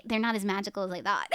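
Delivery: chuckling through a letdown; laughing disappointment. Retold or imitated. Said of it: "I was like".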